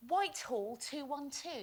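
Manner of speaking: lightly voiced operator answering a call; switchboard operator. Mimicking answering a prank-called phone.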